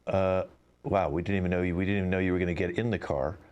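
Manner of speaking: even, announcer-like car voice; robot car voice. Acted. Driverless car tells passengers to get out, in an automated voice. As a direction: read it like an automated ride voice.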